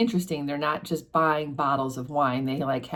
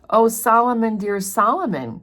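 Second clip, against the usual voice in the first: higher, louder exclamation of recognition; crying out; 6 semitones higher, 6 dB louder than usual. Acted. Sister spotting her brother in a wine shop, crying out. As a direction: cry out the name to a long-lost brother. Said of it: "cried Miss Pross".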